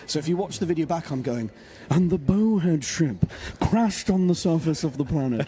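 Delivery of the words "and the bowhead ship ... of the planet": slow, grand nature documentary voice; David Attenborough. Retold or imitated. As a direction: describe it like majestic orcas. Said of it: "I go full David Attenborough with it".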